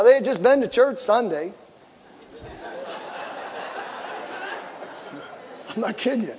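ordinary talk

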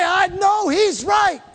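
high, drawn-out declaration; emphatic agreement. Shown as a demonstration. Preacher prompts congregation to tell a neighbor, high and emphatic. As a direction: proclaim it slowly, pitched well up. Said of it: "Look over at somebody and say".

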